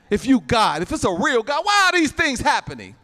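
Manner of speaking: imitated indignant demand, climbing in pitch; challenging God. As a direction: question God like an aggrieved doubter. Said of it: "That's how we talk to him".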